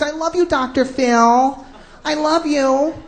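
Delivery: lightly mocked lovestruck fan; drawn-out imitation of a smitten fan; adoring female fan. Girls sending panties to their TV idol, mock adoring. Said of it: "girls are sending their panties".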